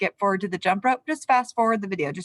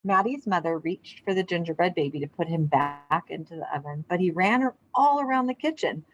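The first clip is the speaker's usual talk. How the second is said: calm read-aloud storybook voice; story narration. A narrator's reading. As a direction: read it to a class of kids, unhurried. Reads picture book aloud.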